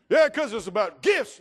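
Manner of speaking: preacher mocking a congregant who says Christmas is about gifts; mock retort. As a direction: play the greedy kid's answer, mock-loud.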